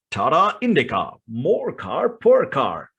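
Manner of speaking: slow, drawn-out ad tagline; lightly voiced radio ad announcer, slowed right down. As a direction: stretch it out like a TV car ad. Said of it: "imitate that particular voice".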